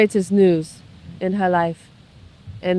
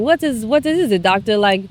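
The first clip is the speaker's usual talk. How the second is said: anxious question; 3 dB louder than usual. Retold or imitated. Woman's anxious question to doctor.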